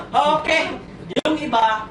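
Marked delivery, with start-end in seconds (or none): 0.1-0.6 short, louder shouted okay; mock shout. A sperm shouting yes to the challenge, playful shout. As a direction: bark it back like an eager runner.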